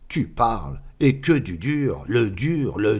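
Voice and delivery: boastful. Acted. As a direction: show off the gold. Bragging about the gold. (vantardise, plus aiguë et forte)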